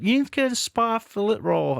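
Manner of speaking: high, loud mock Irish accent that slips into American; bad Irish accent. Mimicking Suze's Spa roll advice in a hammed-up Irish accent. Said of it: "I'm not gonna do an impression of the accent".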